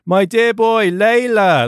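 lightly voiced emotional father. A narrator's reading. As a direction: bless them, overcome. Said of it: "his voice trembled".

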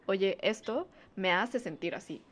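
slow, measured heart-to-heart; unhurried, thought-through statement; calm, considered. Pretend. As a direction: tell a partner slowly and without blame. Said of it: "lo puedo pensar, digerir y llegar".

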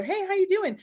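high-pitched retold phone greeting; imitated grandmother. Voicing grandmother's phone call.

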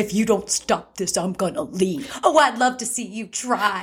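lightly acted, slow film line; Steel Magnolias quote. Friend quoting both sides of a movie spat, lightly acted. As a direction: recite it slowly like a movie scene. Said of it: "Steel Magnolias".

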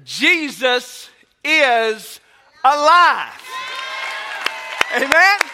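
slow build into a loud shout on alive; rising shout. Real, not acted. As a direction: drag it out, then explode on alive. Easter proclamation after joke.

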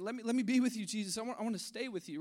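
begging. Retold or imitated. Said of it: "He's saying".

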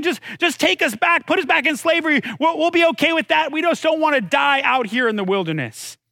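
high-pitched mock grumbling; complaining. Israelites begging to go back to slavery, complaining. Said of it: "now they're complaining".

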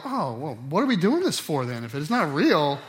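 put-on high, loud, outraged child voice; mock a kid betrayed by the game; hammed-up offended child; indignant kid. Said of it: "they don't go".

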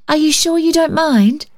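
put-on high, sweet child's question, rising. A narrator's reading. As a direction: call back sweetly in a high little voice. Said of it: "in a sweet high tone".

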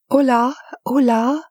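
excited greeting. Acted. Lynette greets eagerly.

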